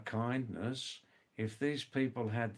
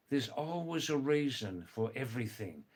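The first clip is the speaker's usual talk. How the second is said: unhurried, spaced-out saying; measured teaching delivery; measured statement. Shown as a demonstration. Same saying given slowly, then fast.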